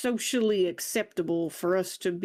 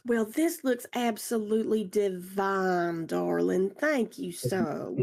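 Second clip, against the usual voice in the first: posh voice; slower than usual. Acted. Player voices a refined character.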